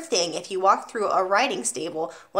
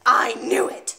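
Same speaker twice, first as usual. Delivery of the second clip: 1 bellowed; 2 semitones higher, 4 dB louder, slower than usual. Acted. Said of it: "she bellowed".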